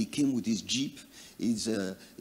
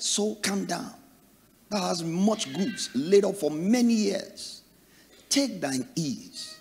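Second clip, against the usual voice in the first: soothing his soul; 7 semitones higher, slower than usual. Acted. Rich man soothing his soul.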